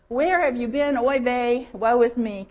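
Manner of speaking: loud, whiny guilt trip, oy vey; guilt-inducing whine. Retold or imitated. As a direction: lay on the guilt, wailing. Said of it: "That guilt-inducing ... kind of tone".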